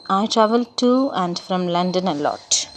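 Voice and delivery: "to" given the main stress, falling. Shown as a demonstration. Teacher showing stress on opposite prepositions. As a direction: push "to" against "from". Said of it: "stress on opposite prepositions".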